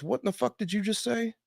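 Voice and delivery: retold indignant challenge. Sergeant turning round on a griping runner, mock indignant. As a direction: demand it in mock outrage.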